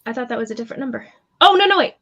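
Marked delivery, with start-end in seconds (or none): 1.4-1.9 surprised. Real, not acted. Misread dice roll.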